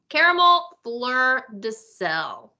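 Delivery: caramel fleur de sel drawn out slowly in French; slow French finish on the last dessert; French pronunciation. Shown as a demonstration. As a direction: linger over fleur de sel like a French menu. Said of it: "I'll do the French".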